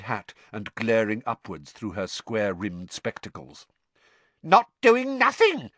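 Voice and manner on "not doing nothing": high, loud mischievous poltergeist voice; Peeves cackling. A narrator's reading. Poltergeist taunts the teacher from above, cackling. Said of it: "cackled Peeves".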